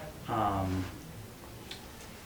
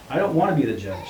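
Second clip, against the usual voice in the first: louder, rushed protest; 3 semitones higher, 7 dB louder, faster than usual. A narrator's reading. Man refusing to judge his children, protesting. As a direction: refuse the role in a quick burst.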